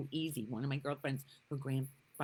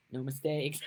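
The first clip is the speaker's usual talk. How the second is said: laughing exclamation; 3 dB louder than usual. Real, not acted. Repeating Byron Katie's phrase, laughing.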